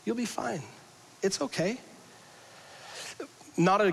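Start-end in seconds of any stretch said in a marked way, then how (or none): 0.0-0.6 soothing. Acted. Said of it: "You can almost hear the Lord saying". 1.2-1.8 higher, softer calming whoa; the Lord soothing. Acted. The Lord calming angry Cain, soft and soothing. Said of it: "You can almost hear the Lord saying".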